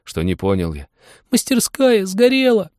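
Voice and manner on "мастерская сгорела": put-on high, strained boy's voice; boy's cry. A narrator's reading. Apprentice insists to his master, high tearful boy's cry. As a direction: insist through tears, high and urgent. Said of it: "Он сказал".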